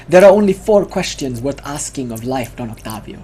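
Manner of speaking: hint of a Spanish accent; mock Spanish accent. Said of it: "he says in his mock Spanish accent".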